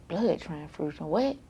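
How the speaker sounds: can't believe what she heard; shocked disbelief. Retold or imitated. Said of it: "I'm like".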